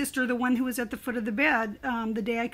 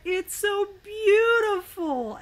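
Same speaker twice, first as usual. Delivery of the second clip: sister's voice; 8 semitones higher, much slower than usual. Retold or imitated. Sister speaking from heaven.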